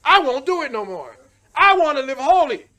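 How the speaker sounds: a wailing plea for forgiveness, building to a long drawn-out cry; shouted repentance prayer. Acted. Preacher models the sinner's prayer for the congregation, shouting. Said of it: "all you have to do is say".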